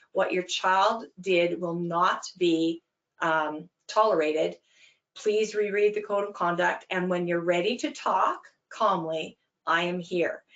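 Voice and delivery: calm, firm, deliberate statement; short and succinct. Shown as a demonstration. Coach answering an angry parent, steady and calm. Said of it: "You say it again, short and succinct".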